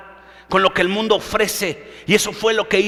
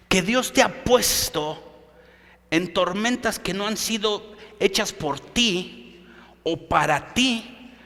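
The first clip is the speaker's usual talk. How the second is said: fading softer and slower to a hush; preacher dropping his voice to a slow, hushed close; quiet; 4 semitones lower, 8 dB quieter, slower than usual. Acted. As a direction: pull them in close, slowly. Preacher drops to intimate close.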